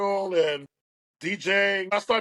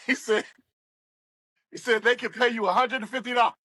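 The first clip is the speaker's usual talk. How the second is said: chuckling through a retold offer; higher, quick, tickled by the memory; amused laughter; 4 semitones higher, faster than usual. Real, not acted. DJ recalls his first paid offer, laughing as he talks. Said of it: "I'm laughing now".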